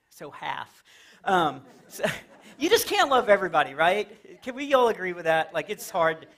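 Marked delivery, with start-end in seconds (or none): 0.1-0.8 unvoiced throwaway whisper; whispered aside. Real, not acted. Comic muttering a punchline to the crowd, whispered. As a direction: slip the punchline under your breath. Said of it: "whispered punchline aside".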